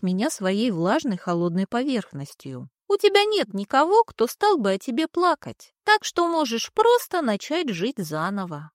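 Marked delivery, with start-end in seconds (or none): 2.9-8.7 high, airy spirit voice; high cloud creature. Acted. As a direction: float the words up high like a cloud. Cloud continues.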